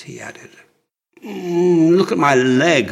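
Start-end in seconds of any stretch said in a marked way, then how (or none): 1.2-2.9 pained moan, a touch higher and louder; hurt, moaning plea. A narrator's reading. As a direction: groan the words out through the pain. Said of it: "moaned Horus".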